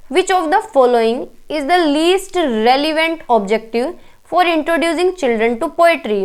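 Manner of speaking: reads the exam question out very slowly; deliberate classroom dictation pace; slow question reading. Acted. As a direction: spell out each word of the question for the class.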